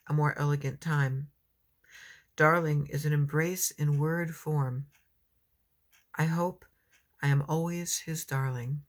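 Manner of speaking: measured poetry recital with pauses; poem reading. Acted. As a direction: read it as a poem, phrase by phrase. Reads her own poem.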